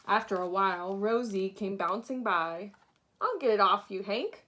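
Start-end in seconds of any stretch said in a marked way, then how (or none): 3.2-4.4 shouted. Acted. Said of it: "she shouted".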